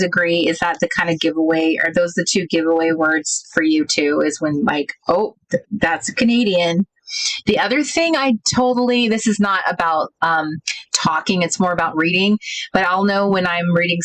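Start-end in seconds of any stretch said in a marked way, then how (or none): none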